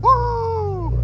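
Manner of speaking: high whooping cheer; cheering shout. Real, not acted. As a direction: whoop right back. Answering the cheer.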